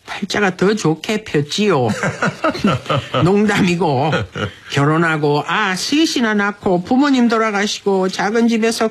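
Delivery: unhurried, performed Busan-dialect letter reading. Acted. Radio host reads husband's letter for wife's sixtieth, Busan dialect.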